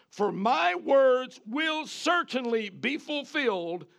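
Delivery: high, slow pronouncement of silence; stern angel. Retold or imitated. Angel sentencing Zechariah to silence, slow and stern. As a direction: declare the sentence slowly and firmly. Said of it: "the angel said".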